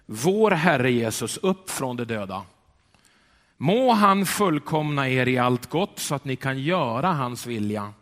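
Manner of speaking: slow, weighty Bible reading; solemn scripture reading. Acted. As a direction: read God's word with solemn weight. Reads scripture aloud. (högtidlig bibelläsning)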